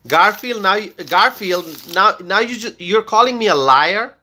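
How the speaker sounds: affronted by the accusation; stunned, offended question; indignant disbelief. Real, not acted. Indignant reply to a viewer's comment.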